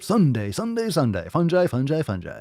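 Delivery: high-pitched hype ad chant; mock event announcer, punching each repeat; car dealership announcer. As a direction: sell it like a car dealership spot. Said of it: "the car dealership".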